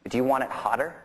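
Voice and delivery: retold line in a Cockney accent; put-on Cockney, a laugh close behind; thick Cockney accent. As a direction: imitate a Cockney asking a question. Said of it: "in this real thick Cockney accent".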